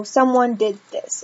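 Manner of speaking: slow, even telling; just state it flatly; teacher giving a plain statement example, slow; matter-of-fact statement. Shown as a demonstration. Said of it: "Statements are just like".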